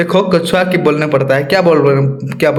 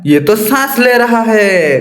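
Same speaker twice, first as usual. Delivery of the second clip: higher, slow, half-shouted discovery; a mild mock shout, higher and slower; raised voice; 4 semitones higher, slower than usual. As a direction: call it out as if startled. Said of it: "ऊंचे स्वर में मतलब चिल्ला के वो कहा".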